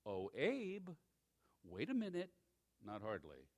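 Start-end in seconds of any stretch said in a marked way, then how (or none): 0.0-2.3 soft, gentle mock call from heaven; a hushed, polite little interruption; still small voice. Preacher mocks a too-gentle heavenly voice, softly. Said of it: "still small voice from heaven".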